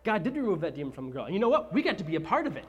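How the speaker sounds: Paul catching his friend's joy, fast at first; Paul finally grinning and fired up; excited Paul. Acted. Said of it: "he gets really excited".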